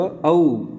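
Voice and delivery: "औ" held as a gliding au; vowel demonstration. Shown as a demonstration. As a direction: sound out "औ" slowly for learners. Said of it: "इसकी मात्रा का आवाज़ कैसे होगा?".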